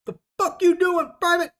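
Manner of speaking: high-pitched, loud shouted challenge; drill sergeant yelling. Retold or imitated. Drill sergeant catching a private out, yelled. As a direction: yell it like a drill sergeant at a recruit. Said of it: "I just got yelled at by a drill sergeant".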